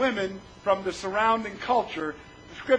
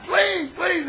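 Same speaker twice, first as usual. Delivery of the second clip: higher-pitched mock begging; crying plea; 6 semitones higher than usual. Son keeps begging his father, imitated tearful plea. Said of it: "And he kept crying".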